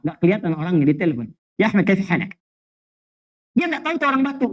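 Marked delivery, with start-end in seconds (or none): 1.5-2.3 put-on light Arabic accent, fluent and casual; Arabic phone greeting. Preacher mimics an Indonesian fluent in Arabic, lightly accented. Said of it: "bahasa Arab".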